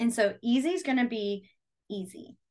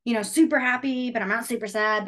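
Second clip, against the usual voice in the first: so-so speaker. Shown as a demonstration. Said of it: "you would be like".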